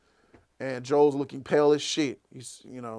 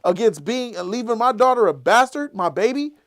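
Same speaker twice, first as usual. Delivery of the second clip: angry brother; 7 semitones higher, 7 dB louder than usual. Acted. Angry rant at his brother.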